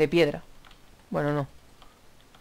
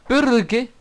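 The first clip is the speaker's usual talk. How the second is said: insistent demand; 8 semitones higher, 7 dB louder than usual. Real, not acted. Presses friend for an answer.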